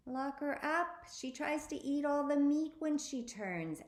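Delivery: high, urgent sister voice; bossy sister voice. A narrator's reading. Sister orders her locked up.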